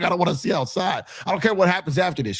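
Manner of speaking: high, fast whiny protest; whiny pleading. Retold or imitated. Begging the marshal, high and whiny. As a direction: plead like a scared kid. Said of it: "I'm like".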